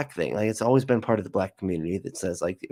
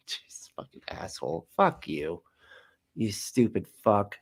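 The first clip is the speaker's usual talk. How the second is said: muttered aside; 3 dB quieter than usual. Real, not acted. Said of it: "muttered aside".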